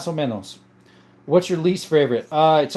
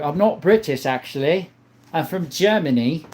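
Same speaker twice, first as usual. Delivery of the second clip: put-on British accent, lilting; 3 semitones lower than usual. Denying being British to a viewer, British accent. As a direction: play at being British, mate. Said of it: "Or, sorry, that accent".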